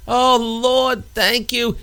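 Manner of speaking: high-pitched praise to heaven; hammed-up relief in prayer; grateful prayer. Archie praying as rescue arrives, thankful. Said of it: "down on his hands and knees to pray".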